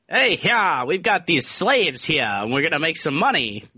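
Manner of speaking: a hint of Cartman doing a Southern accent. Cartman on a college campus, mild mock Southern accent. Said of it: "in his best Southern voice".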